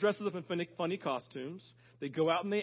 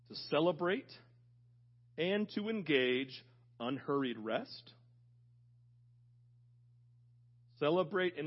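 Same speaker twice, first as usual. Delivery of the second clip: measured phrases with long pauses between them; deliberate, intentional; 2 semitones lower than usual. Real, not acted. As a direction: let each phrase land before the next. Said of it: "these are very intentional words".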